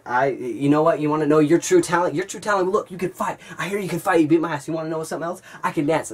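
high, sneering speech to the bully; mocking taunt. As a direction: taunt him with fake praise.

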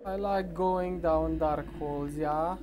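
put-on German accent. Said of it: "Why am I speaking with a gay German accent?".

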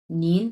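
নিন with a rising second tone; rising nín demo. Shown as a demonstration. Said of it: "দুই number tone".

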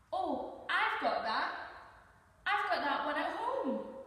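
put-on high, loud, eager child character; excited. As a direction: burst out with excited recognition. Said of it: "Carlo said excitedly".

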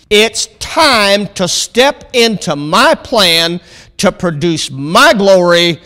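emphatic pulpit declamation; firm reading, slowing for the key phrases; prophetic proclamation. Real, not acted.

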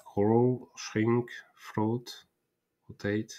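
English words with a real French accent. Real, not acted. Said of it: "Excusez-moi pour mon accent anglais".

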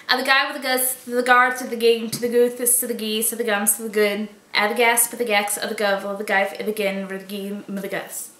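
playful nonsense chant of g-words; double talk gibberish. Shown as a demonstration. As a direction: rattle off made-up g-words. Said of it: "a paragraph in double talk".

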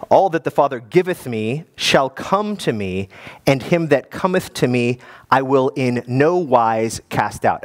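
slow, measured King James reading; scripture reading. Shown as a demonstration. Preacher rereading John six correctly, slow and solemn. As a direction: read the verse slowly and solemnly. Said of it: "let me, let me do it right".

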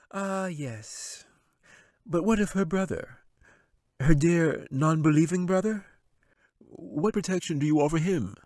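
high, sly wizard voice. Acted. Wizard dismissing the angel, sly and high. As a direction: sneer it down from the throne.

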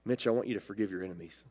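low, very soft voice of God; a hushed, gentle directive, low in pitch; the Lord speaking. Retold or imitated. God tells Mitch to forgive his enemies, low and hushed. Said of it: "And the Lord said".

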